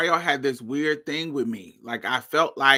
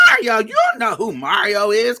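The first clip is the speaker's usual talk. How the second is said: insistent quote; 7 semitones higher, 5 dB louder than usual. Retold or imitated. Insisting to the boy.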